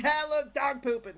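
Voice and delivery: put-on childish excited pointing; gleeful pointing out. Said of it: "I'm like".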